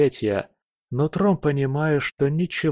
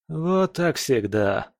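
sarcastic laugh; 5 semitones higher, slower than usual. Acted. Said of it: "саркастично рассмеялся друг".

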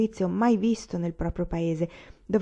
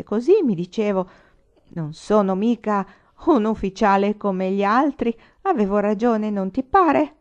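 angry; 3 semitones higher, 5 dB louder than usual. Acted. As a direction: demand agreement with rising anger. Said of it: "domandò con ira".

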